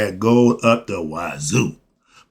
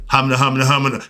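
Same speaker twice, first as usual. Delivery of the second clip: a light Ralph Kramden splutter; lightly done sitcom stammer. Retold or imitated. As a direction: sputter like Kramden caught out. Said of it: "again, Ralph Cramden".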